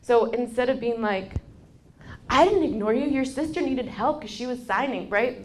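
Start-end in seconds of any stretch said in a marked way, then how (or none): 2.3-5.1 louder and higher, defensive reflex; a parent's sharp defensive retort; defensive snap back. Pretend. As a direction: bristle and justify yourself. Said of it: "that's the reflex in the head".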